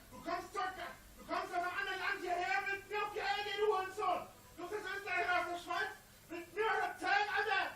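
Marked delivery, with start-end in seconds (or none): 0.1-4.2 berserk rage. Real, not acted. Insulting hecklers.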